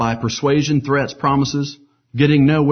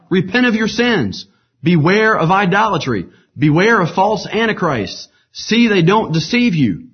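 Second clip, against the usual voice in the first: high, slow, louder warning to the crowd; preaching cry; 8 semitones higher, 5 dB louder than usual. A narrator's reading. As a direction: preach it slowly to the crowd, much higher and louder. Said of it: "he cried".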